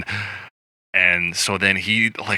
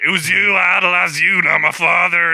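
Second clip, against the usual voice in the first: high, strained mock confession; retold anguished outburst; 10 semitones higher, 4 dB louder than usual. Bradley Cooper to Sam Elliott in car scene, mock anguish. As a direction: imitate an emotional outburst, pitched way up.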